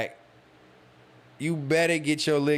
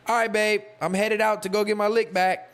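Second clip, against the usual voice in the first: mocking girlfriend voice; 8 semitones higher than usual. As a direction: sing it out like she's casually leaving. Girlfriend announcing revenge cheating.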